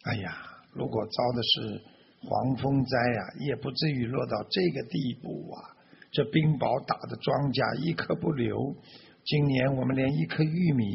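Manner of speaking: understated, weary lament; sighing lament. Acted. Farmer to his children over ruined crops, mild sighing lament. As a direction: lament with a touch of a sigh. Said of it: "对着孩子们唉声叹气地说".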